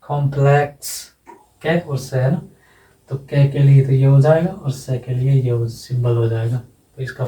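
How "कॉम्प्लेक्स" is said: कॉम्प्लेक्स said slowly, ending in a clear "ks". Shown as a demonstration. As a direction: draw out कॉम्प्लेक्स to show the final K and S. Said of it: "एक्स का उच्चारण हो रहा है के और से".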